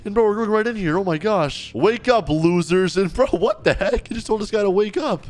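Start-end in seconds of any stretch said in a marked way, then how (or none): 1.8-3.0 mock guard shout. Guard rouses prisoners.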